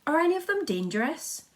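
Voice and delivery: high, loud shout. A narrator's reading. Police chief shouting his worry, high and loud. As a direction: call it up, worried and loud. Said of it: "shouted the chief of police".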